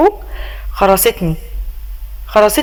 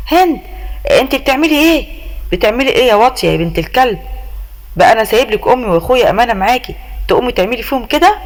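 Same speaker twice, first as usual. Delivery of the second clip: raised voice, angry accusation; acted anger, voice lifted at the wife; husband confronting wife, loud; 3 semitones higher than usual. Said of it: "وبيقول لي بصوت عالي".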